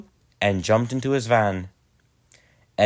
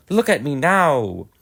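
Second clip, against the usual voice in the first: higher, louder, slow happy boast; proud little engine; 6 semitones higher, 5 dB louder, slower than usual. Acted. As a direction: show off to everyone, drawn out. Edward proud while puffing.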